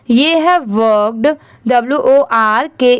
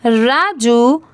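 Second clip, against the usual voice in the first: slow model reading; much slower than usual. Shown as a demonstration. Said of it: "मैं आपको पढ़ के दिखाती हूँ कैसे पढ़ना है".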